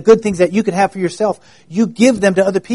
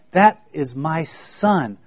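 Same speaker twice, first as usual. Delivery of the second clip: proud dad; 4 dB quieter, much slower than usual. Retold or imitated. Parent proudly points out son.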